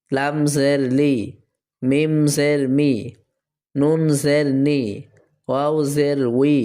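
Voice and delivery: slow spelling chant, closing "ই", "বি", "তি" held long; teacher's measured drill with long "ee" in "মি", "নি"; jer pronunciation drill. Shown as a demonstration. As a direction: recite each letter evenly, stretch the final "জি". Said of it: "এখন দেখব আমরা জের এর উচ্চারণটা".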